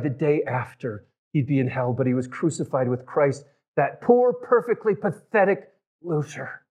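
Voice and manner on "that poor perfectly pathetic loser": high, slow and drawn out; emphatic exclamation. Real, not acted. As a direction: lift the voice high and stretch each word. Preacher exclaims over the condemned criminal.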